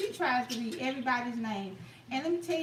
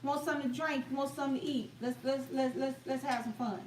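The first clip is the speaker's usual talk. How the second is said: hospitable invite. Shown as a demonstration. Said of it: "we just meaning".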